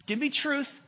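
loud, high urgent plea; voice of a hurting person. Acted. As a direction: beg for it straight and simple. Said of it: "what they need is".

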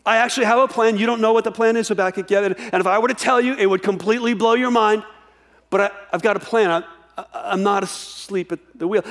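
a lightly voiced, upbeat God reassuring the prophet. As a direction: tell him confidently you have a plan. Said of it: "He's like".

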